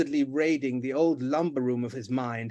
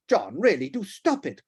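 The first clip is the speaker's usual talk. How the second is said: distressed plea; 4 dB louder than usual. Acted. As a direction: beg him to stop. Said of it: "cried the Duchess, visibly distressed".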